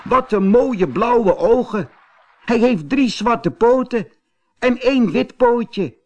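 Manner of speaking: high, loud delighted exclaiming; children marvelling at the kitten's eyes; excited children. A narrator's reading. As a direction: gush over the kitten with delight. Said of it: "De kinderen riepen opgewonden".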